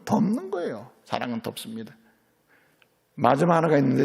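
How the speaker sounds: ordinary talk, nothing marked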